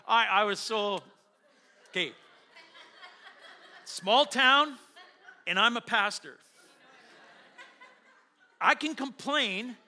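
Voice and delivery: laughing it off. Real, not acted. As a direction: laugh through the frustration. Pastor laughing at his own frustration.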